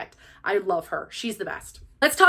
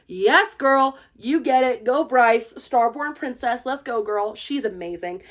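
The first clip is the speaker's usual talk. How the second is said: hype fan cheer. Retold or imitated. Gushing about character as hype fan.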